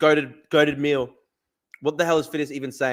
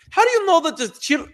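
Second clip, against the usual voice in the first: much higher, incredulous mock of the guest; mock quote; 13 semitones higher, 3 dB louder than usual. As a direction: echo his words in shrill disbelief. Mocking the guest.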